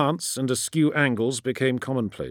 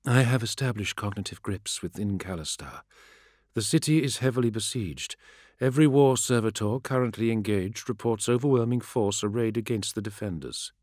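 flat robotic monotone; machine-priest in a level monotone. Acted. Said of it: "Her monotone voice followed".

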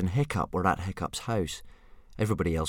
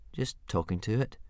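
softer, sheepish mumble; embarrassed mumble; 5 dB quieter than usual. Acted. Hiccup caught talking to his dragon, mumbling embarrassed. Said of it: "mumbled Hiccup, very embarrassed".

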